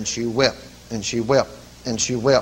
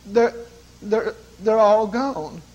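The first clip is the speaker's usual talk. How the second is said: halting, slow retold amazement; hesitant, with long breaks between starts; dazed, delivered woman; much slower than usual. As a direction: lightly voice a woman finding words in wonder.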